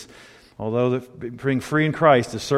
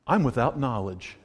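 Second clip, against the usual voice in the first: mock pompous declaration; 4 semitones lower, 6 dB quieter than usual. Shown as a demonstration. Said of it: "My response is".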